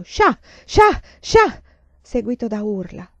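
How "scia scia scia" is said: high, loud rhythmic chant-like shouts; grido cadenzato. A narrator's reading. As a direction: shout each one separately, like a menacing mob's cry. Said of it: "Poi sentii un grido cadenzato". (grida cadenzate e acute)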